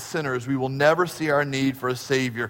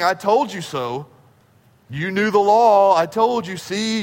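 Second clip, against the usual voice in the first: mock preachy told-you-so; 3 semitones higher, 3 dB louder than usual. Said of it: "It's not preachy of saying".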